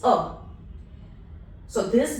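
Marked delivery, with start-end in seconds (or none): 0.0-0.4 "a" said as a neutral "uh"; E as in her. Shown as a demonstration. Teacher showing final E, "a" like the vowel in her. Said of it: "E in her".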